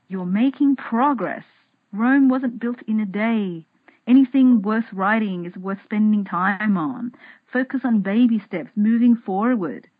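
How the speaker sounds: reassuring best friend. Retold or imitated. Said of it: "she would say".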